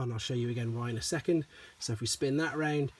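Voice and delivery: usual speaking voice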